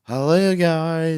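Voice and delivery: imitating narrator. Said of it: "His voice is different in this one".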